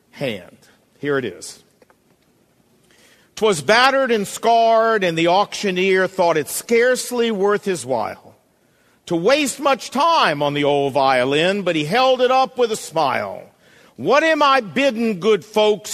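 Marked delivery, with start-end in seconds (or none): 3.4-13.4 loud, slow, weighty poem reading; dramatic poem recitation. Acted. Preacher reciting The Touch of the Master's Hand to church, solemn and slow. 14.0-15.9 loud, higher auctioneer's call; auctioneer crying out. Acted. Auctioneer calling for bids on the violin, loud. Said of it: "he cried".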